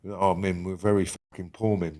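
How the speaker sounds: usual speaking voice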